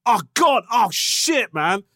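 high, loud panicked cry; panicking dentist. Retold or imitated. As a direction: shriek it in mock terror. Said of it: "He goes".

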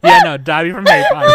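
high shrieking excitement; excited squeal. Real, not acted. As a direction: squeal it out fast. Excited shrieking about Dobby.

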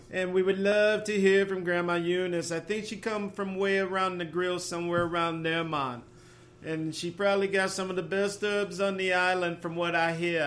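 put-on a light, half-hearted Jamaican accent. Host jokes about Grandma Eunice in a mild Jamaican accent. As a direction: play at a Jamaican accent for the listeners. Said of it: "as good as Jamaican accent as I can get".

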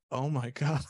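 amazed, pitch jumping up high; slow, stretched-out disbelief breaking into a laugh; retold amazement. Film fan reliving a rewatched takeoff shot, amazed. Retelling own awe on rewatching.

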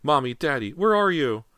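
put-on loud, high little boy calling; high-pitched child's cry. A narrator's reading. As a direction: cry for your parents in a small child's voice. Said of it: "James's high-pitched cry".

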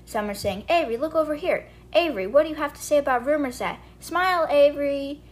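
high, mock shouted calls of reporters; a hint of reporters clamouring for her attention; reporters yelling. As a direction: lightly imitate a crowd of paparazzi calling out. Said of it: "a roar of reporters yelling her name".

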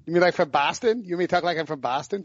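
badly faked Boston accent; lightly attempted, unconvincing Boston accent; terrible Boston accent. Shown as a demonstration. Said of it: "that is the worst Boston accent".

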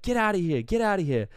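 loud, high mock yell; bouncer's yell. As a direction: chase off a gatecrasher. Acting bouncers repelling gatecrasher.

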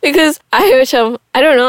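normal talking voice

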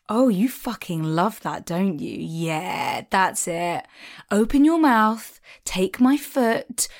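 cheeky, patronising dominatrix, slow on the commands; lightly voiced sensual dominatrix; dom voice. Shown as a demonstration. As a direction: tease him like a smarmy mistress. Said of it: "That's, that's my Dom voice".

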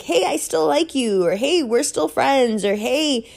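high, slow placating assurances; imitating forced comforting words; mock reassuring. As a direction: soothe her in a sing-song, half-mocking. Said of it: "She needed me to".

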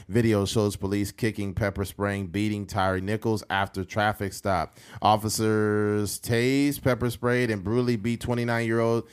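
even, measured article reading; news report read-aloud. Real, not acted. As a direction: read the report out steadily, little pitch movement.

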